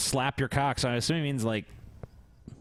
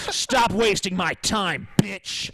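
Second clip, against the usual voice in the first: aggressive macho voice. Acted. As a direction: bark orders like an alpha. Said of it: "This is how you fucking talk to a woman".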